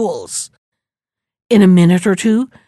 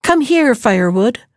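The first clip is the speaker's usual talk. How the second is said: lightly raised summons to the firewood; calling out; 2 semitones higher than usual. Acted. Maiden calls the firewood to her, a mild raised call. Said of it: "and called out".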